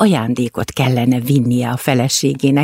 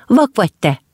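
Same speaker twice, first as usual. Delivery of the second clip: raging; 6 semitones higher than usual. Acted. Wolf raging at the mouse from the pit, mildly angry. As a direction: snap at the mouse with some rage. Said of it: "dühöngött a farkas".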